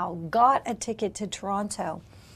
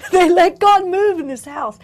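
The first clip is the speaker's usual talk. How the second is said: laughing, louder and higher repeat; 7 semitones higher, 12 dB louder than usual. Real, not acted. Preacher repeating her praise of the church, laughing. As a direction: laugh it out with joy.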